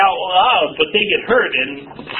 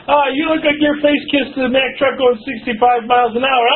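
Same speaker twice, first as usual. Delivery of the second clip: higher-pitched teasing jab; mock jesting insult; 6 semitones higher than usual. Poking fun at someone as a joke, mock jeering. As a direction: tease them in a raised, joking voice.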